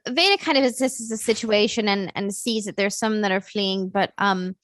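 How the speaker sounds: put-on narrating in a light British accent. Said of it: "I'm doing British accent right now".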